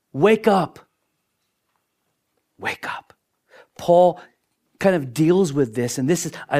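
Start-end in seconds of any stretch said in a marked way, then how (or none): 0.1-0.8 loud call. Retold or imitated. Rapture call. 2.6-3.1 whisper. Retold or imitated. Repeated as whisper.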